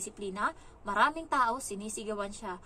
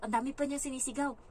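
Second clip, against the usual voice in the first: usual speaking voice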